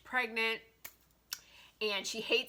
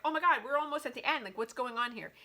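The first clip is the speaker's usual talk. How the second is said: mock exasperation; 3 semitones higher than usual. Mocking third act conflict.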